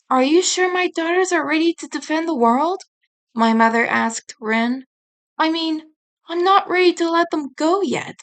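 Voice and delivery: a hint of an anxious mother; worried mother.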